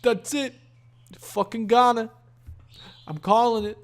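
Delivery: high, emphatic mock betting call; loud, high mock proclamation; hyped-up crowd imitation. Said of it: "Everybody's like".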